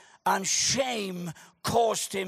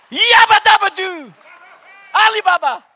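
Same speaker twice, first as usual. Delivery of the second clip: silly exclamation; 9 semitones higher, 14 dB louder than usual. Acted. Comic exclamations in sermon.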